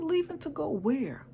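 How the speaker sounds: high, slow stunned repeat; baffled question. Retold or imitated. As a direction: ask it again, still not believing it. Retold confused reply again.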